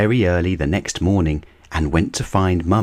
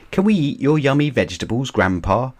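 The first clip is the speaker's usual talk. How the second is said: put-on higher, fast eager little-girl ask; eager question; 7 semitones higher, faster than usual. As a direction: rush out the question hungrily. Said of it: "asked Peppa".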